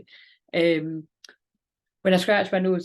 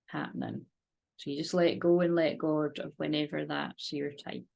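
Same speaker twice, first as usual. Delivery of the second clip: calm, steady meditation voice; guided meditation. Acted. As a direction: lead a gentle visualisation. Guided visualisation and prayer.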